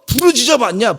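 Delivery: preacher voicing God asking the congregation. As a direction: challenge them as God would. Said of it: "이렇게 하시는 것 같아".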